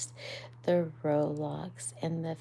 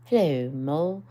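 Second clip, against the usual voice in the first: louder friendly greeting; lightly voiced Rat calling hello; a hint of a cheerful Rat; 8 dB louder, faster than usual. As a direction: call out a bright hello. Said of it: "said Water Rat".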